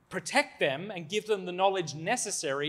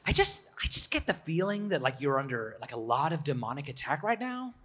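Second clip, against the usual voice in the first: bad American accent. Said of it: "my really bad American accent".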